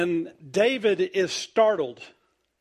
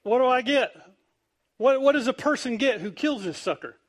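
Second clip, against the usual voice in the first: eager demand; 6 semitones higher than usual. Retold or imitated. David eager, acted out.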